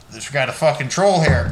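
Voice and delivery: loud alarmed shout about a troll; shouting cop. Retold or imitated. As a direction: yell it like a startled cop. Cops voiced seeing big guy.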